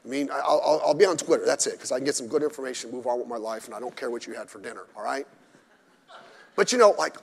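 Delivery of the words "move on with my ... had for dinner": usual speaking voice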